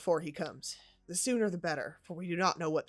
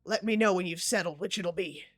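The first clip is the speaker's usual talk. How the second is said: sardonic; 7 dB louder than usual. A narrator's reading. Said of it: "he said sardonically".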